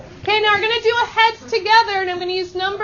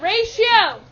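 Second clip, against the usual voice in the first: raised, higher-pitched classroom call; loud call-out; 4 semitones higher than usual. Shown as a demonstration. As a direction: project the word for the class to echo. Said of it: "Let's say it really loud".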